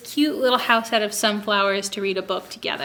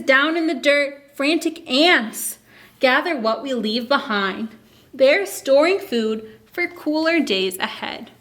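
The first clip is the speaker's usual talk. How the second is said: put-on reading to children. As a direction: read it aloud to a class of little kids. Reads picture book to kids.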